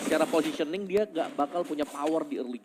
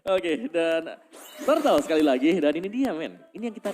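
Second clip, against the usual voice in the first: excited caster call; 3 semitones higher, 5 dB louder than usual. Real, not acted. Caster calls second Turtle.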